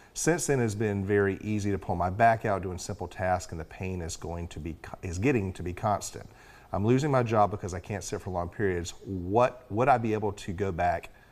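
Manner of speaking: normal talking voice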